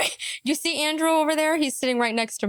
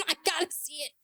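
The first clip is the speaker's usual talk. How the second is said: laughing disbelief; 4 semitones higher, 7 dB quieter, faster than usual. Real, not acted.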